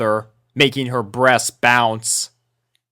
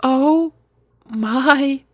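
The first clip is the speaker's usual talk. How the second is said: blushing Fluttershy; 14 semitones higher than usual. A narrator's reading. Fluttershy flustered at the sight, high bashful girl voice. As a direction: breathe it out shyly, much higher. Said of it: "Fluttershy blushed".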